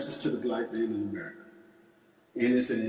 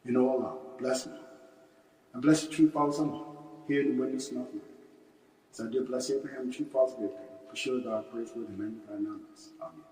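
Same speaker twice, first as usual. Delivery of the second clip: prayer recitation. Real, not acted. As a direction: recite a memorized prayer, each phrase falling away at the end. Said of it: "we want to recite the Muslim prayer".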